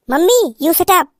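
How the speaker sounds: a lightly voiced bride whispering her secret plan; sneaky young bride. Bride snaps.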